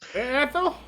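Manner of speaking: high, put-on old-lady call; old woman ghost. Old woman calling to her friend, high and questioning. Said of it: "you got these two old women".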